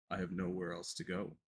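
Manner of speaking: low, soft creature voice; low muffled Hypno. Acted. Hypno speaks.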